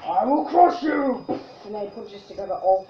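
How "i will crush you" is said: slow menacing monster boast; drawn-out warrior threat; barbarian. Retold or imitated. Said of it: "what's Goro's thingy line".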